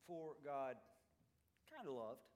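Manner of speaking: half-hearted version of a big declaration; lukewarm. Shown as a demonstration. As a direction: toss off "kinda" with no weight.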